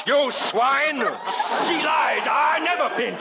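shouted denial, outraged; angry shout. Acted. Sheik accused of pinching the bride, shouting in anger. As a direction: yell it back at the accuser.

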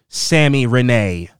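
"Sammy Renee" stretched slowly with emphasis; emphasis on the name. Real, not acted. Host shouting out a reviewer, "Sammy Renee" said slowly with emphasis. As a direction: linger over both names in "Sammy Renee". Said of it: "putting so much emphasis, emphasis on your name".

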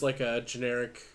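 frog in the throat; throat getting hoarse. Real, not acted. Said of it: "my voice is all frogging up there".

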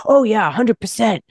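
put-on light Boston accent on the agreement; a hint of a Boston accent. Mom's boyfriend agreeing in a light Boston accent. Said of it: "with the Boston accent and stuff".

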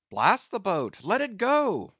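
high, loud curse; angry cry. A narrator's reading. Stubb cursing his boat, high and angry. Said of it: "cried Stubb".

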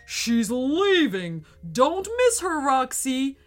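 high, loud monster yell. A narrator's reading. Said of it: "yelled the monster".

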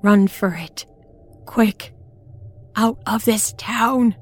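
high panicked yelling; terrified scream. Acted. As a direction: scream at her to flee. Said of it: "another inhuman, blood-curdling scream".

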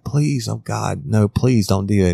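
imitated high-pitched begging; frightened pleading. Victim begs man threatening to kill her, frightened pleading.

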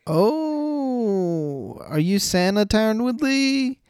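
high, loud mocking "are you Santa" squeal; mock excited squeal. Real, not acted.

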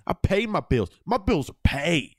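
lightly voiced Southern pride; Southern accent. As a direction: brag in a mild Southern accent. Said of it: "she says it in this Southern accent".

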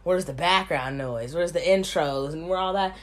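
lightly mocking low complainer voice; mocking rude commenter. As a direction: parody a rude viewer complaining. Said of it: "those rude people and be like".

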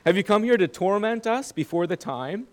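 voicing demons calling out; crying out. A narrator's reading. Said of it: "they cried out".

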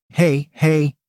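light, narrated amusement; a touch of laughter in a soothing call; laughing. Acted. Julie settling the narrator, lightly amused. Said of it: "Julie laughed".

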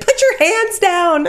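high, loud yelled plea to Pod, half laughing; mock scream at the screen. Fan yelling at Pod on the screen, laughing mock shout. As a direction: yell at the TV through a laugh. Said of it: "screaming at the screen".

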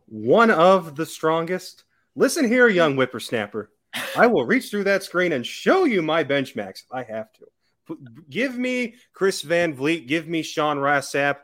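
put-on old prospector. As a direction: scold him like a grumpy old-timer. Mock old-timer scolding the host.

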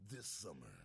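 slow movie trailer voice; lightly voiced trailer announcer; movie theater guy. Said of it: "impression of the movie theater guy".

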